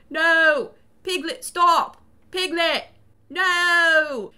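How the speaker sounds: loud, high, drawn-out wails; hammed-up useless cries of protest; mock-helpless shouting. Chris watching Piglet strangle his wife, mock anguish. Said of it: "stand there and go".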